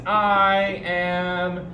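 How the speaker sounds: put-on "I am sixteen years old" stretched very slowly, word by word; very slow drawn-out. Shown as a demonstration. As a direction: draw every word out slowly for the learner. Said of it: "we would tell somebody".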